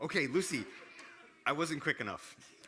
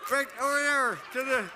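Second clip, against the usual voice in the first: loud calling; 12 semitones higher, 7 dB louder than usual. Real, not acted. Shouting directions after her.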